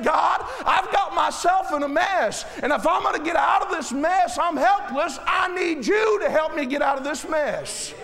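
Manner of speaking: impassioned preacher's confession; pleading prayer. Acted. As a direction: cry out for help from the pulpit. Acted plea to God.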